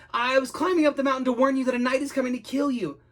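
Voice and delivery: high, urgent plea; pleading. Acted. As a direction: explain desperately, begging. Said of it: "pleaded Jake".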